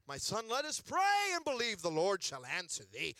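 mock-solemn King James preacher; lightly hammed-up holy dad; pious preacher voice. Pretend holy father blessing his son, solemn. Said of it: "Not like".

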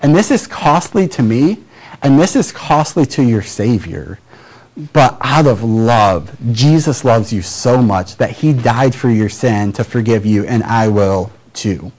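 modelling a costly, sincere forgiveness. Shown as a demonstration. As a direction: let the cost and love show.

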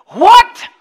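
high squealing "What?" yelled out; a screaming party "What?"; hype-man shout. Retold or imitated. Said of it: "a reference in pop culture that goes something like".

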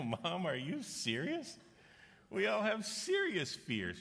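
high, slow, laughing disbelief; incredulous laughing kids. Retold or imitated. Kids laugh at mom's claim.

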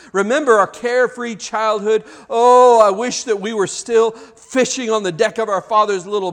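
wistful regret, swelling with emotion; anguished lament. Acted. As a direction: lament as a doubting disciple, pitched a little up. Dejected disciples lamenting lost lives.

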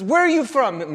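lightly voiced café owner quizzing a customer; questioning café papa. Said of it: "he says".

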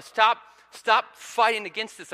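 loud, slow, high-pitched plea; exasperated parent. Retold or imitated. Dad to his resisting little daughter, exasperated pleading. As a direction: imitate a dad pleading, leaning hard on each word.

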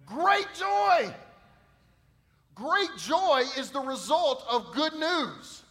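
high, loud shout on great joy. Acted. Pastor answering his own question, loud and high. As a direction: proclaim great joy, slowing right down.

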